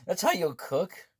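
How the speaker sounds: squeaky, slow, laughing high voice; laughing disbelief. Acted. Player laughing at the girl's cooking, squeaky and slow. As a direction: crack up at the cooking.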